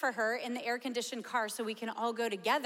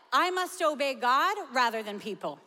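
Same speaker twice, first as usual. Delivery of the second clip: Peter declares, louder; bold declaration; 5 dB louder than usual. Retold or imitated. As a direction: plant your feet and proclaim it. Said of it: "And he's like".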